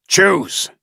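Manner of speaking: high furious one-word yell; furious shout. Acted. Mason ordering Samuel, furious shout. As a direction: scream the order.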